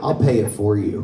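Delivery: pleading through laughter; laughing plea. Retold or imitated. Teen worker begging the owner not to ask, laughing. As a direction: beg her, cracking up. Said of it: "I was like".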